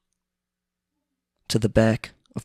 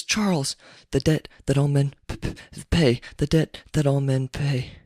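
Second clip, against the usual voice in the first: dying words; 4 semitones higher than usual. Retold or imitated. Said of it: "The man, dying".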